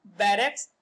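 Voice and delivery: "बैरक्स" said carefully as "BAI-reks"; pronunciation demo. Shown as a demonstration. Teacher showing learners how to say the word "बैरक्स", pronunciation demo. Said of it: "इसका pronunciation क्या होगा".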